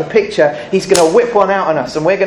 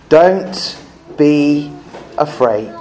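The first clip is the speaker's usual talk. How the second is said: kindly reassurance; 4 semitones lower, much slower than usual. Retold or imitated. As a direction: say it like a brother forgiving. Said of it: "he spoke kindly to them".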